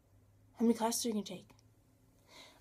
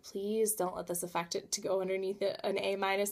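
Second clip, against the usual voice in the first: quiet plea; 6 dB quieter than usual. Retold or imitated. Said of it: "I'm like".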